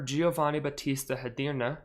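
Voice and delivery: a light, half-put-on Italian accent on the name; weird Italian accent. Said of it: "I did a weird accent there".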